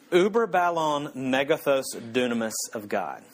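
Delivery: slow, deliberate Greek phrase in an English mouth; butchered Greek. Shown as a demonstration. Preacher showing off rusty seminary Greek, butchered Greek. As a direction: sound out "uber ballon megathos dunamis" slowly and grandly. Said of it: "I'm gonna butcher the Greek".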